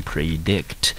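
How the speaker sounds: "predict" said as a model word; pronunciation demo. Shown as a demonstration. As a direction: demonstrate "predict" carefully for learners. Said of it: "我们念成predict". (示范念出 "predict")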